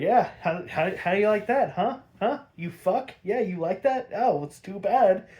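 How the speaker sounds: loud, high mock gloating villain; gloating shout. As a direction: jeer at the victim like a cackling bully. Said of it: "He's like".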